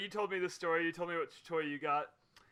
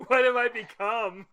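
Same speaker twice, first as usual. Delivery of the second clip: hammed-up despair, building louder; mock tearful regret; 6 dB louder than usual. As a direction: play at tragic self-reproach. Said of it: "tears streaming down your face".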